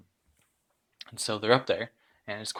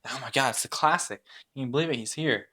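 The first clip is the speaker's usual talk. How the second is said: a touch of fangirl excitement, slightly higher; excited fans; 4 semitones higher, faster than usual. Acted. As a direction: gush lightly over the celebrity. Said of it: "really excited to see him".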